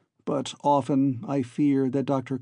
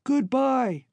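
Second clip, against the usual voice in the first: very high, small farewell; tiny voice; 12 semitones higher than usual. Acted. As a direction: call up as a shrunken man. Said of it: "his tiny voice echoed up".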